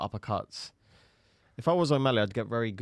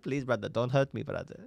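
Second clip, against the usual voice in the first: mock pleading in a foreign accent; lightly put-on accented begging; Islam Makhachev; 2 semitones higher than usual. Beaten fighter begging his opponent for mercy, mock pleading. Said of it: "what does Islam say back?".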